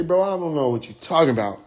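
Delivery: playing dumb through a laugh; imitating a chuckling, innocent denial. Elijah denies being the prophet.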